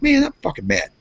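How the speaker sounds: high-pitched mock fuming; retold anger. Driver after waiting at blocked pump, retold anger. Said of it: "I was pretty fucking mad".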